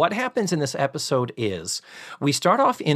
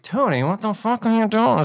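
exasperated yell; 9 semitones higher than usual. Retold or imitated. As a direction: blurt it out in high disbelief. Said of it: "quickly they're like".

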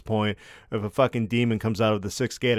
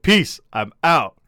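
breezy exit; 4 semitones higher, 5 dB louder, slower than usual. Retold or imitated. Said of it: "It was like".

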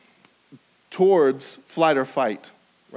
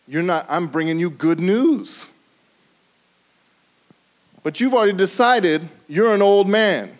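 loud, higher chiding of Zechariah; angel rebuking; 5 semitones higher, 5 dB louder than usual. Acted. Gabriel chiding the old priest, loud and high. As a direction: press him hard on his unbelief. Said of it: "The angel says to Zechariah".

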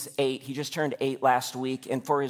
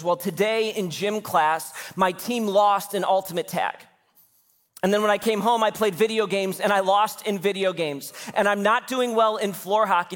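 mock whiny kid; 5 semitones higher than usual. Dad voicing son's complaint.

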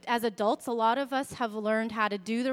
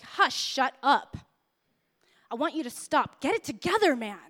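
exasperated outburst; 3 dB louder than usual. Retold or imitated. Mom's inner reaction to a tantrum, mock exasperated scolding. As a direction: tell them off as if at wit's end. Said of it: "everything in me wanted to be like".

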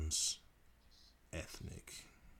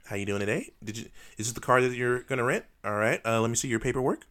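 higher, lilting rental-desk patter; put-on professional service voice; customer service voice; 5 semitones higher, 4 dB louder than usual. Shown as a demonstration. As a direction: greet a customer at the counter. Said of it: "how do you answer it".

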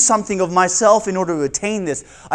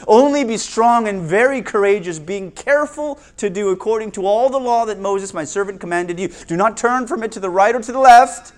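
scripture reading. Acted. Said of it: "let me give you one verse".

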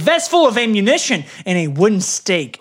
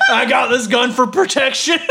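swagger about the gun; gun nut voice; 4 semitones higher than usual. Acted. Mocking gun-rights Santa.

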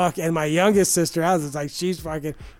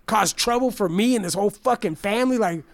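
indignant refusal; 2 semitones higher than usual. Retold or imitated. Refusing sister a job.

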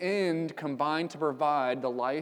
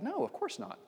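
indignant no; 13 semitones higher, 4 dB quieter than usual. Acted. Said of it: "and Paul said".

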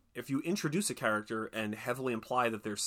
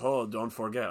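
Baz Luhrmann. Retold or imitated. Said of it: "I don't know what his accent is".

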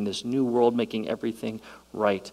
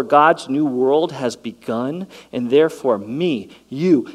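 quoting N T Wright; 3 semitones higher, 6 dB louder than usual. Retold or imitated. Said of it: "N T Wright says it this way".

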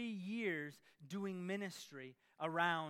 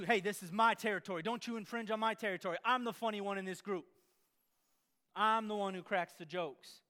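territorial rival; 5 dB louder than usual. Acted. Imagined rival guarding territory.

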